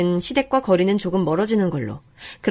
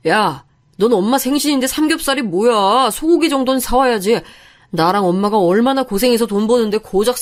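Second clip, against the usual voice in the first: husband yelling. Retold or imitated. Husband berates wife at his mother's birthday, mild mock yell. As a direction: scold her over cheap pork as the husband, half-voiced. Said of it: "하면서 소리를 질렀습니다".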